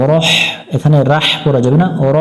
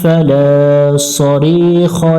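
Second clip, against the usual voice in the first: measured, melodic tajweed recitation of the verse; Quran recitation; 3 semitones higher, much slower than usual. Shown as a demonstration. Teacher models the finished verse for students, melodic recitation.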